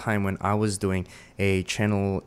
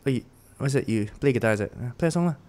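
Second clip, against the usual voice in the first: Singlish; 3 semitones higher, faster than usual. Retold or imitated. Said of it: "she said".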